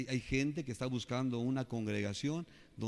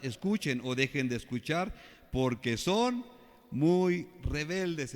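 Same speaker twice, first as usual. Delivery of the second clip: scripture reading; 4 dB louder than usual. Acted. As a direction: build the warning to its end. Preacher reads the verse again.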